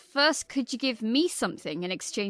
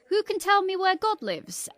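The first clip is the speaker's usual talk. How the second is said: higher-pitched teacher's question; 9 semitones higher than usual. Acted. A teacher quizzing her class, higher-pitched questioning. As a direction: put a question to the class in a raised voice. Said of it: "she asks her class".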